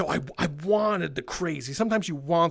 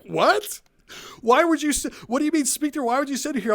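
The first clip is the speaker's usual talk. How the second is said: confused officer; 7 semitones higher than usual. Retold or imitated. Confused police officer on phone.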